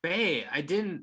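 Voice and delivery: high, loud, slow panicked denial. Acted. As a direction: plead you're innocent, caught out. Husband caught, panicking.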